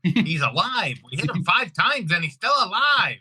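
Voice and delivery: high-pitched movie gangster impression; Godfather quote. Quoting The Godfather to the interviewer, high-pitched mobster impression. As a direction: act out an incredulous mobster line, pitched high. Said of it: "that thing in The Godfather".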